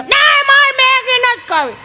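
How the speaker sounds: put-on high, slow whiny child voice; child refusing food, high and whiny. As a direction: pout it out like a spoilt kid.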